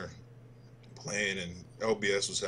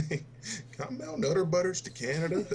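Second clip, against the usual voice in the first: high, eager retold question with a rising end; lightly mimicked buddy asking his mom; Diesel's question; 11 semitones higher than usual. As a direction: imitate the friend asking his mom, pitched way up. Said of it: "you hear him over the headset".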